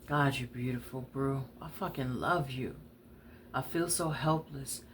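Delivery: soft and low, aching with love; quiet, heartbroken tenderness; tender hush. Acted. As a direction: murmur it to her like a confession. Tender confession at the window.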